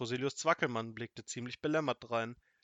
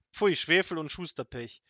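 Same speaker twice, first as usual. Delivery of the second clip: slow, loud, higher-pitched curse; venomous storybook wizard's cursing; spitting venom; 5 semitones higher, 6 dB louder than usual. A narrator's reading. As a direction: spit out the oath slowly and angrily. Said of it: "spuckte Gift und Galle".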